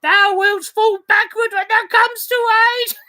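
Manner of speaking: put-on playful warning to the child; merry husband teasing. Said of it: "quoth my husband".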